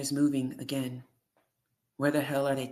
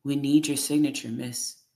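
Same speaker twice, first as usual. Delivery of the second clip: pressing louder for a signature; a nurse waving paper at a silent patient, louder; louder, insistent; 4 dB louder than usual. Acted. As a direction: push the demand, louder. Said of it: "Her voice is getting louder".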